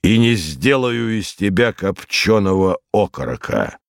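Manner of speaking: lightly voiced menacing rogue. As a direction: play a rogue lightly warning a child. Voices Tyburtsiy threatening the boy.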